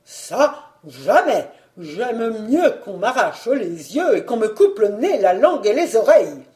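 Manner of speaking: vehement, mounting protest; outraged refusal. Acted. Husband refuses to sell his collections, mounting outrage. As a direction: refuse hotly, building in force and pace at the end.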